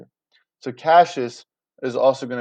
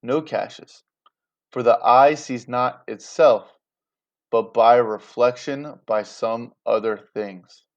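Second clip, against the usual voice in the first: slow, grave and deliberate; solemn Brutus, weighing every word; very serious; 2 semitones lower, slower than usual. Acted. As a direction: lay each phrase down slowly and gravely. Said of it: "Brutus gets very serious".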